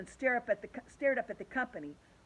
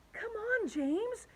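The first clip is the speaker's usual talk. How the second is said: coaxing; 13 semitones higher, much slower than usual. A narrator's reading. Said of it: "coaxing him".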